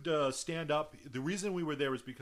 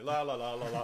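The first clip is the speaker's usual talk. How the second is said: mock nonchalant la-la; 3 semitones lower than usual. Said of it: "try to do the calm walk away".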